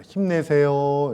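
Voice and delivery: slow, drawn-out 힘내세요 of encouragement; encouraging cheer. Shown as a demonstration. Pastor showing the congregation how to encourage, slow and warm. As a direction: cheer the person beside you on, slowly. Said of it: "이렇게 이야기해 보겠습니다".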